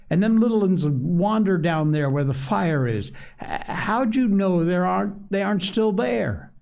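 put-on Piggy scolding the boys. A narrator's reading. Piggy warns about littluns.

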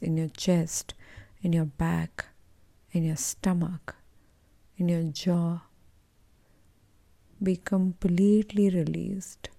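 measured meditation guide with long pauses; guided meditation. Acted. Coach leading listeners to let go of entitlement, guided meditation. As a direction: guide them gently, phrase by phrase.

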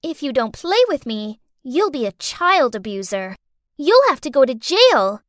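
put-on low, sinister child threat; menacing child. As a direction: threaten coldly.

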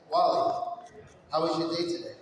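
a hint of a menacing, even stepfather; calm, cold stepfather. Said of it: "the way he did that was very calmly".

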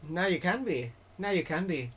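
tentative attempt at an Irish accent. Shown as a demonstration. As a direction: try it with an Irish lilt. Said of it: "That's more Irish, I guess".

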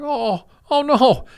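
high, slow, horrified gasp of "oh no"; horrified realization. Retold or imitated. Tom Hanks realizing he's covered in blood, high and horrified. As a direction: squeak it out as dread dawns. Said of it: "It's like".

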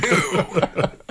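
high disgusted squeal. Acted. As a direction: recoil in disgust. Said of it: "said Eric".

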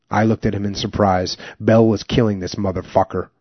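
steady, measured audiobook narration; memoir reading. A narrator's reading. Reading a war memoir aloud to listeners, steady narration.

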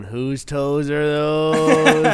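slow, drawn-out meme line; meme voice quote. Retold or imitated. Quoting the monkey meme, a hint of slow drawl. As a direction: stretch it out like the meme. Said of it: "I'm fucking going".

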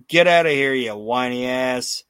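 loud punch on the first words; mock wrestler's yell, easing off after each burst; retold yelling. Retelling Sid sending Bret Hart off, mock yelling. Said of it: "And as he's yelling".

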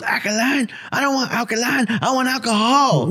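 indignant cranky old man, hammed up; grumpy old man. Old man rejecting water, demanding a drink, grumpy. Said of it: "this old man is now grumpy".

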